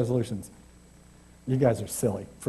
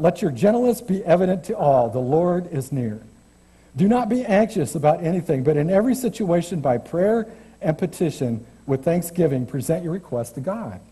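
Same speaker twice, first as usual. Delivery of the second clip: scripture reading. Acted. Preacher reading Philippians to the congregation, measured scripture voice. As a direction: read the verses with gentle weight.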